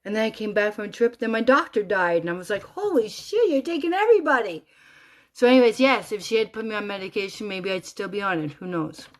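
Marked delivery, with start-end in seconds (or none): 2.6-4.6 high, loud mock outrage; retold shocked outburst. Widow retelling her outburst at God, shocked and loud. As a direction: exclaim it high in disbelief.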